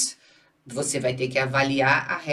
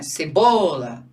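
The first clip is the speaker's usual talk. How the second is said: "Cebola" drawn out slowly and louder; slow model word; 6 dB louder, much slower than usual. Shown as a demonstration. Teacher showing the class the example word slowly. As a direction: lay out "Cebola" syllable by syllable. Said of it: "olha lá".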